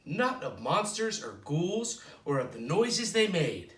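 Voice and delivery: storybook read-aloud with a gentle lilt; reading to children. Acted. Librarian reading a picture book to children, lilting. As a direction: read it like bedtime story time.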